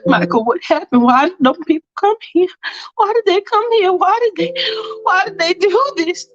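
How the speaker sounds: high, upset repeated questions; acted distress rising as it goes; distraught questioning. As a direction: demand answers, pitch climbing. Distraught questions after the shooting.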